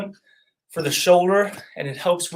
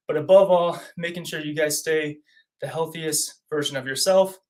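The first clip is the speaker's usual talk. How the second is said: breathless after exercising; puffing between phrases; out of breath; 4 dB louder than usual. Real, not acted. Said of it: "I'm out of breath as always".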